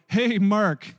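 loud divine call; booming voice from above. Retold or imitated. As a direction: call out like a voice from heaven. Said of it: "It's gonna sound like that".

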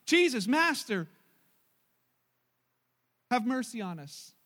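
slow, loud plea from afar; crying out. A narrator's reading. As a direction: call out desperately across a distance. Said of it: "crying out".

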